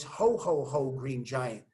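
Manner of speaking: low commercial-jingle giant, easy ho-ho-ho; lightly imitated low giant from a commercial; Green Giant. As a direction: do a deep, soft-landing advert mascot. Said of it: "that's a commercial".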